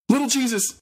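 put-on high, cracked old-woman scold; shrill old lady scolding her pet. A narrator's reading. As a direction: scold like a fussy old auntie. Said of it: "the old woman scolded".

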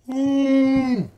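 high, loud announcer hype; hyped shout. Acted. Gamer hyping himself up, loud excited announcer voice. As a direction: belt it like a game show host.

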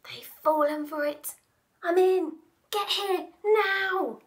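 conspiratorial boss commanding; scheming mouse. Acted. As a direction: mouse boss into walkie-talkie. Villain on walkie-talkie.

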